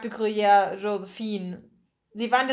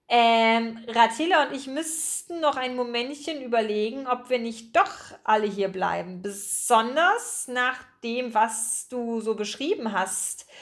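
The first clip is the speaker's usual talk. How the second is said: lightly voiced purring rat, hesitant; coy, hesitant, slowing toward the end; purring rat character. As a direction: draw out the words, mulling it over. Rat character hesitates, drawn-out speech.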